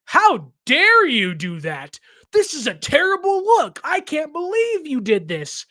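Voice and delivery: hammed-up outraged fan, pitch jumping way up; imitating fans scolding Kyle and John in mock outrage. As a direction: parody the indignant fans, building to high indignation. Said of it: "saw that and were like".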